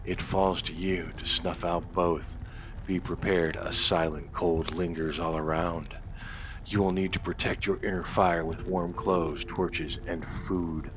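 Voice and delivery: grand game narrator voice, evenly paced; narration read-aloud. Acted. Gamer reading the quest text to viewers in a narrator voice. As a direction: read the quest intro like a storyteller.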